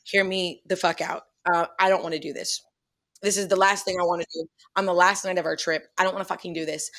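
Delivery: retold calm, measured plea; understated, controlled appeal to a friend; polite and calm. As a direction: keep it low-key and civil despite the swearing. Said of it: "very calmly said".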